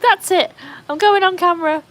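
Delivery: high, loud comic declaration; hammed-up, high-pitched outburst; mock resolve. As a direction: announce it like a dramatic last straw. Acting out a rash decision.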